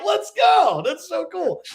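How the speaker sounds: high, loud hype yell; retold excited shout. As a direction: cheer it out. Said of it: "I'm like".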